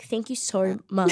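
slow half-British accent, lightly put on. Gushing her thanks after being crowned a dame, half British. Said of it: "I sound half British".

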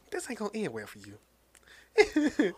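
slow, knowing warning; ominous warning. Retold or imitated. Comic fans warning Eddie, slow and ominous. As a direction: drag it out like a grim prophecy. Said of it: "comic book is like".

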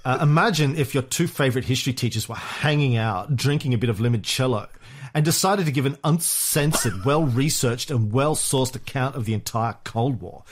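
bad Valley Girl accent, lightly done; reading the review in a mock Valley Girl accent; half-hearted Valley Girl accent. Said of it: "bad Valley Girl accent".

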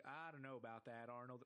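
put-on drawling accent; Stinky's drawl. Cartoon kid doubting an idea to his friend, drawled accent. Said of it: "he speaks in a drawl".

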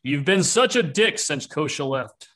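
slow, put-on troll whine; high-pitched troll. Troll rebukes another after the fight, slow character voice. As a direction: grumble slowly in a high troll voice. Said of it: "The high pitched voice".

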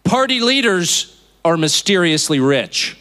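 slow, emphatic quote; slow, deliberate reading. Real, not acted. Quoting the favorite line of a tweet, slow and deliberate. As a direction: read it out slowly, weighing each word. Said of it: "I want to read this slowly".

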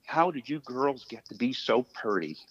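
lightly attempted Southern accent. Dad imitates the ballplayer charming his daughters, light Southern accent. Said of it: "I'm not gonna do the Southern accent very well".

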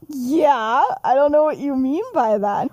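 a touch of flustered defensiveness; mild mock panic. Remus hiding his crush from Sirius, mildly panicked. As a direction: lightly imitate someone caught out and panicking. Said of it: "Remus straight up panics".

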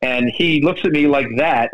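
ordinary talk

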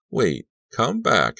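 slow, high calling after. Acted. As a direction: call after someone running. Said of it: "she called".

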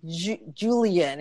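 "Julian" said the North American way, slowly; slow, Anglicised "Julian"; North American pronunciation. Retold or imitated. He simplifies his name for her, "Julian" North American style. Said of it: "like, North American way".

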